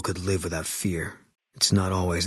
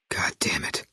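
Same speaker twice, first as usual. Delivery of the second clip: muttered curse. Acted. Hostages died, furious.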